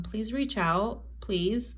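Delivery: "Please reach out, please." said softly, pleading. Pretend. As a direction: plead quietly like the missing lover. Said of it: "they're like".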